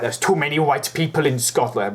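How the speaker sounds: Scottish quote slipping into Welsh; lilting, unintended Welsh accent; accidental Welsh accent. Retold or imitated. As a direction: attempt at Scottish that comes out Welsh. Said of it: "Why am I doing a Welsh accent".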